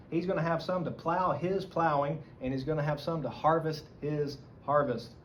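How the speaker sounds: "his" leaned on each time; stress on his. Shown as a demonstration. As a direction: press the word "his" in both halves. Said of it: "The emphasis is on his".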